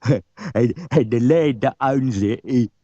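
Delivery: crooked mate laughing at the lad. Acted. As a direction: chuckle through the words. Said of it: "laughed the driver's mate".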